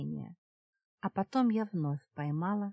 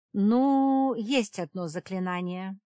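drawn out thoughtfully; 3 semitones higher, 7 dB louder, slower than usual. A narrator's reading. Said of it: "задумчиво протянула ведьма".

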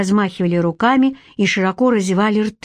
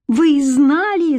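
shout; 6 semitones higher, much slower than usual. A narrator's reading. Boy accuses Shnyr of knowing, shouting. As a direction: accuse him at full voice. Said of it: "закричал я".

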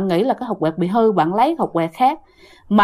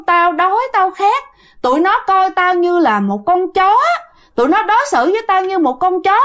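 high, plaintive wail of a suffering ghost; a lightly voiced weeping ghost, pitched high; crying complaint; 8 semitones higher than usual. Ghost uncle tells his nephew of his suffering, high plaintive wail. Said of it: "vừa khóc mà vừa nói".

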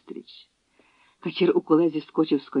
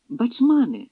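calling out; 8 semitones higher, slower than usual. A narrator's reading. Dobrynia hailing Bachman while jumping down, calling. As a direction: call his name again as he dismounts. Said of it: "гукнув Добриня".

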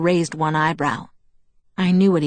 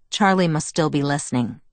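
ordinary delivery

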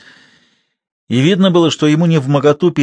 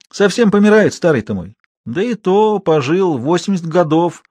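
put-on high, loud old peasant woman, cheerful; 7 semitones higher, 3 dB louder than usual. A narrator's reading. (голос бойкой старухи)

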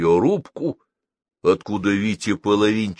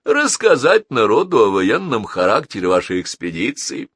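courteous villain, rising in pitch as he goes; suave villain, insistent; 4 semitones higher, 3 dB louder than usual. Acted. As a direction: build the accusation politely, climbing higher.

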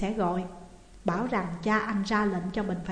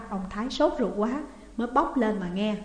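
ordinary delivery

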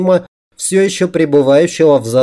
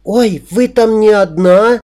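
high, drawn-out female voice; amused young lady; 9 semitones higher, 4 dB louder, slower than usual. A narrator's reading. A young customer peeks at the screen, high and amused. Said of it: "хмыкнула одна из молодых особ".

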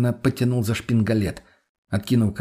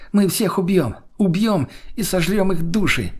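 high-pitched, wild glee; manic exultation; 8 semitones higher than usual. Acted. Possessed girl vowing to devour souls, high manic exclamation. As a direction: build a reckless battle cry up high.

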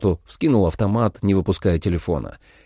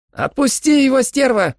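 sharp order, higher and louder; fierce command; commanding shout; 5 dB louder than usual. A narrator's reading. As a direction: bark the command at the vampire. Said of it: "скомандовала Холли".

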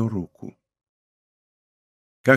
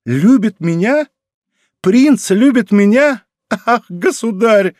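higher, slow, incredulous questions; astonished disbelief; 8 semitones higher, 4 dB louder, slower than usual. Acted. Princess to the king, slow, higher disbelief. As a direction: she can't believe the prince loves her.

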